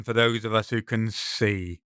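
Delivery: see given weird weight; the word see set apart and stressed; emphasis on see. Acted. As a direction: lean oddly on see. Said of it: "There's a weird emphasis on that last word".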